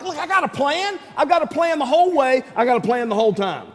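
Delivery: calm a worrier who won't listen; God reassuring Israel about His plan; mock patient God. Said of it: "God's like".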